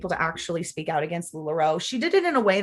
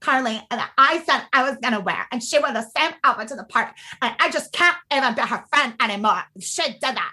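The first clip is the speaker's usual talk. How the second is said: catty gossip; 4 semitones higher than usual. Retold or imitated. Girls in the jacuzzi trashing a friend, a hint of catty whine. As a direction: mimic the petty mean-girl griping. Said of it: "mad shit talking".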